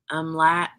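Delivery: "umlat" as UM-lat; unsure "umlat", short a in the last syllable; trying a third pronunciation. Shown as a demonstration. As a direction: say "umlat" ending like "cat". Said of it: "I don't know how to pronounce it".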